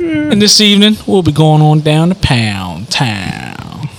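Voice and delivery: slow, smooth pilot PA voice; drawn-out captain's announcement; airline captain announcement. Pretend. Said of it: "this is your captain here".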